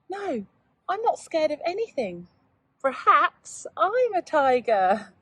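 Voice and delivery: lightly voiced brave young boy; little boy voice. Boy says he's brave now.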